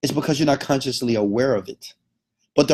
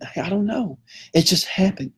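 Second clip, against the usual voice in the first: clueless excuse; 8 semitones higher than usual. Acted. Cheating man's clueless excuse, acted.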